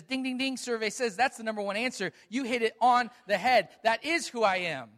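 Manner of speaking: loud, bright game show host call; Jesus as a game show host crowning the right answer. Retold or imitated. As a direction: announce it like a quiz show winner.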